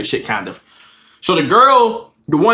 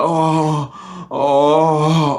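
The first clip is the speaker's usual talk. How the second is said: low, drawn-out mock moans; imitated moaning; 5 semitones lower than usual. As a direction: moan it out, long and low. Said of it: "still moaning on the bed".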